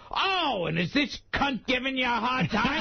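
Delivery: high-pitched, acted concern; exaggerated punchline outrage; mock indignant manager.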